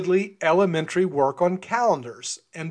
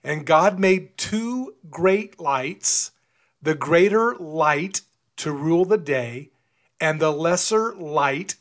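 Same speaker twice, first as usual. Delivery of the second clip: slow reading, leaning on "lights" and "light"; stress on LIGHT; slower than usual. Real, not acted. Preacher reading Genesis to listeners, emphasizing the word "light". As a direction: draw out and punch each "light", pausing after it. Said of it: "I am emphasizing the word light".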